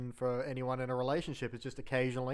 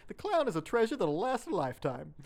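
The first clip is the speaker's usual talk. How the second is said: quoting the TV line; 5 semitones higher than usual. Retold or imitated. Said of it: "when he turns on the cable and goes".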